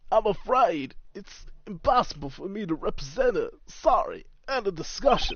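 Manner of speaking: theatrical lawyer refusing a case; pompous older lawyer. Acted. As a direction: shut the client down grandly.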